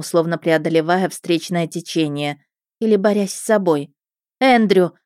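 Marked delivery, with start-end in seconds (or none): 4.4-4.9 louder, higher call of a name; understated yell to stop someone. A narrator's reading. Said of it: "заорала я". (негромко сыгранный крик)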